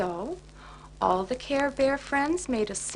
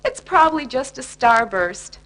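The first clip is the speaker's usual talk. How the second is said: cheerful; 8 dB louder than usual. Acted. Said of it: "shouted Cheer Bear cheerfully".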